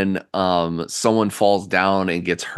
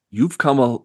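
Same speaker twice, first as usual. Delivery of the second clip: high, raised voice from nowhere; voice in the mind; 7 semitones higher than usual. Acted. Game master trying out a voice in the player's mind, raised pitch. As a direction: pitch it up as a disembodied voice. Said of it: "you hear a voice echo in your mind".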